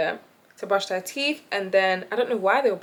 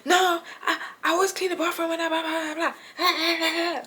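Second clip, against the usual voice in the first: mock whiny Tony; 8 semitones higher than usual. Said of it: "He's like".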